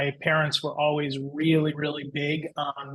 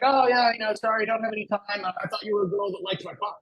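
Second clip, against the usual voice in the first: higher-pitched imitation of a British man; retold British brush-off in a higher voice; British accent; 5 semitones higher, faster than usual. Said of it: "from a guy with a British accent".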